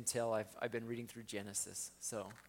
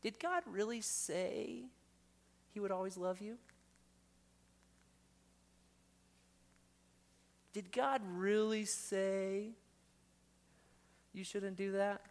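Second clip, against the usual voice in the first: voice of deception; 7 semitones higher than usual. Acted. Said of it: "that voice of deception".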